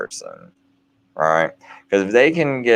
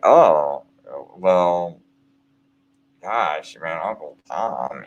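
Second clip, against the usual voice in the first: horrible inflection; 3 semitones lower, slower than usual. Retold or imitated. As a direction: say it like something horrible, fading to a hush. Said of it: "I had that kind of inflection in it".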